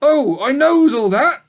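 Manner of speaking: very high, loud sneering sheep voice; old ewe dismissing the pig; sour old ewe. Acted. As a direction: spit it out sourly as an old ewe.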